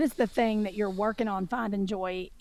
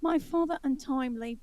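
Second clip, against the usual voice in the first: higher, softer mock-British delivery; horrible British accent; 4 semitones higher, 5 dB quieter than usual. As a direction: do a badly faked British accent. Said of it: "it's my horrible British".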